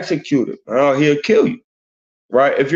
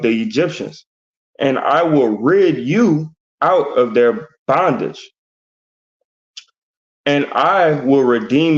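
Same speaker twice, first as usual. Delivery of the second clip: slow, deliberate verse reading; scripture reading. Acted. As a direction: read each phrase out solemnly, with pauses. Reads scripture aloud.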